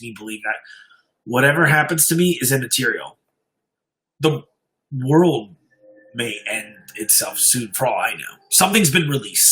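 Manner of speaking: story narration. A narrator's reading. Streamer reading a creepy story to his live chat, grave narration. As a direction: read it like a haunted confession.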